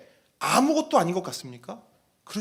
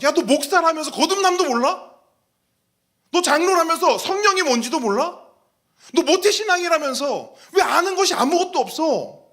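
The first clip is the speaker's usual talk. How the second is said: higher, louder, exasperated rebuke; mock scolding; 11 semitones higher, 7 dB louder than usual. Jesus rebuking a leader who knows nothing, loud scolding. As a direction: scold him like a disappointed teacher. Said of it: "오죽하면 예수님이 그러잖아요".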